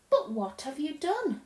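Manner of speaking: put-on gently curious child's question; puzzled Lucy. Lucy asks the faun what he did, puzzled.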